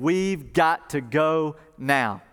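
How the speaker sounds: slow, weighted words; urgent command. Retold or imitated. Angels telling townspeople to go, slow and urgent. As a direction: spell out the urgency slowly. Angels urge Lot to flee.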